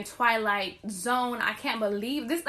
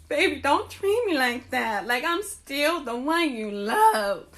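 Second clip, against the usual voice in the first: mock pleading; slower than usual. Pleading with boyfriend.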